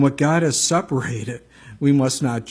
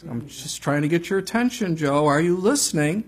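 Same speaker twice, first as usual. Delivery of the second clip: much higher, mock exasperated plea; imitating his own exasperated self, pitched way up; exasperated cry; 5 semitones higher than usual. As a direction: throw up your hands at God in mock exasperation. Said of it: "I'm like".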